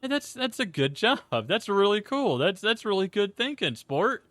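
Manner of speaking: mild imitation of a cheerful coaching dad; supportive and encouraging. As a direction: pat a kid on the back with your voice. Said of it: "supportive and encouraging".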